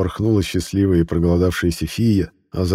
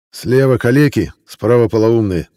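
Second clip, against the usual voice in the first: merchant voice; 4 semitones higher, 5 dB louder than usual. Acted. Slave trader shows his goods.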